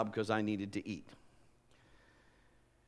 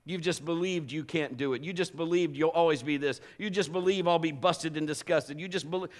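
ordinary delivery

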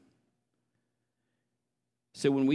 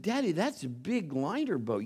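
put-on little boy voice; 6 semitones higher than usual.

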